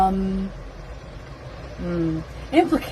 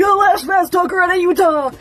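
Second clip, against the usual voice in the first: much higher, acted-out outburst; high-pitched exclamation; 9 semitones higher, 4 dB louder than usual. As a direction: pitch it way up for a mock quote.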